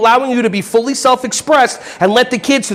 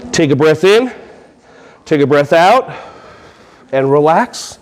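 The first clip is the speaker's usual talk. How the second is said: low-pitched guided breathing cues; guided stretch; 4 semitones lower, slower than usual. Acted. Coach leading a room through a stretch, guided breathing voice. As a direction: lead the stretch in a lowered voice, with pauses.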